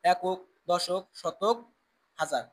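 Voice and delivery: loud, emphatic counting along. Shown as a demonstration. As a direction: call out each place for the class to repeat. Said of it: "আমার সাথে সাথে তোমরাও গুনবা". (জোরে জোরে গুনে বলা)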